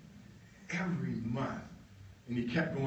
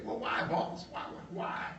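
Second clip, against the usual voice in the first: whispered question; 5 semitones higher, 3 dB quieter than usual. Retold or imitated. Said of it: "And he said".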